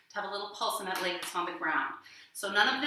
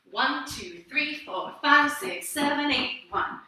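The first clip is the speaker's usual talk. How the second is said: counting; 5 semitones higher, slower than usual. Shown as a demonstration. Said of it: "watch that one more time".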